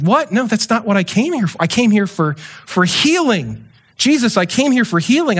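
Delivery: mock incredulous, pitch jumping up; baffled protest. Man who came for healing answers Jesus, baffled protest. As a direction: protest like a puzzled patient wanting healing.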